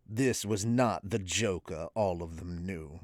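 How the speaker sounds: low, soft preacher narration; ASMR reverend. Acted. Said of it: "the A S M R voice".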